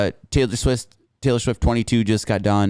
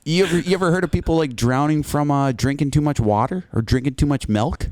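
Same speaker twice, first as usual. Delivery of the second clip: excited; 6 semitones higher than usual. Real, not acted. Excited question.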